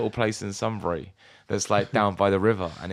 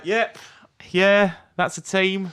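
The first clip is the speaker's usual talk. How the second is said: mock polite bluff; 6 semitones higher, 4 dB louder than usual. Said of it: "And you're just like".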